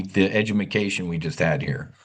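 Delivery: says edumacation, a deliberate comic slip for education; jokey mispronunciation. Real, not acted. Host teasing the chat about edumacation.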